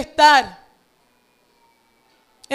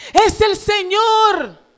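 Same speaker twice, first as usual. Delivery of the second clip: recognition; 6 semitones higher, 4 dB louder, much slower than usual. Retold or imitated. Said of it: "dijo a Pedro".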